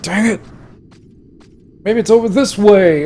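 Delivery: loud, high caricature of a lost leader; put-on friend voice. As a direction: ham up the hapless guide. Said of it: "He doesn't talk like that".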